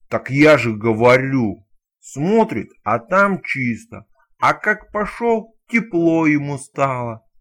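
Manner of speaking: loud, slow punchline repeat; loud joke teller. Acted. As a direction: hammer the punchline home, slowly.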